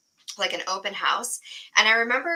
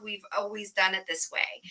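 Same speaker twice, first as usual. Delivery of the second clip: flat quote; 6 dB quieter than usual. Retold or imitated. Host contrasting innovation with old habits, soft quote. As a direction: let "We've always done it this way" drop quietly. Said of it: "the antithesis of".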